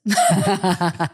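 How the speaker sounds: high-pitched playful interruption, pretending not to hear; mock "what?". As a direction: tease with a sudden high "What?". Jokingly feigns not hearing her.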